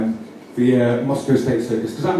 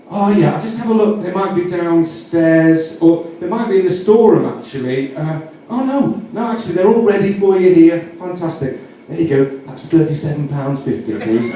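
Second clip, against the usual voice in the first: chirpy shopkeeper; 3 semitones higher than usual. Pretend. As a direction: act the helpful shopkeeper. Shopkeeper voiced, higher.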